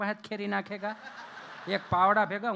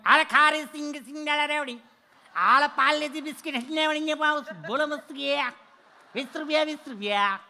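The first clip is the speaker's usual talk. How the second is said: high, loud street-hawker call; sing-song it like a toll-booth peanut seller; hawker's cry; 6 semitones higher, 5 dB louder than usual. Retold or imitated. Hawker at the toll plaza shouting his wares, high and loud.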